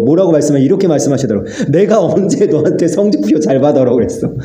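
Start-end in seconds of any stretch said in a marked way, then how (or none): 1.7-4.3 a gentle, higher voice of God, pleading then firm; voicing God. God reassuring the weary pastor, raised and tender. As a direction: speak as God gently rebuking his servant. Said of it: "하나님이 저에게 말씀하시더라고".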